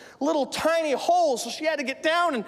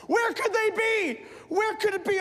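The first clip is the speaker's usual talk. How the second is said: acted panicky searching, raised pitch at first; frantic searching; 4 semitones higher than usual. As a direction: play someone hunting frantically for lost money. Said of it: "she starts searching frantically".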